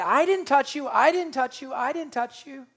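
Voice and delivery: quick innocent denial; denying crowd. Retold or imitated. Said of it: "everybody denied it".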